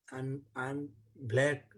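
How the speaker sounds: slow, heavy, hurt admission; dejected. Acted. Krishna admits to the boys he is dark, dejected. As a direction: let the words sink, crushed. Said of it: "Krishna became very def-, depressed".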